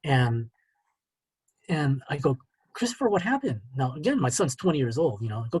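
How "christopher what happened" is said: concerned father. Retold or imitated. Father alarmed at tearful son, retold.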